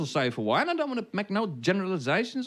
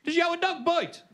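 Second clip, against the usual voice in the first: Black Country joke voice; 12 semitones higher than usual. Acted. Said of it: "and it goes".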